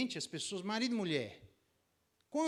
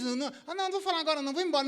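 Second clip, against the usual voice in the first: much higher, louder playful refusal; hammed-up wife teasing; teasing wife backing out; 12 semitones higher, 10 dB louder, much faster than usual. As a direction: leave him hanging on purpose. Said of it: "memes na internet".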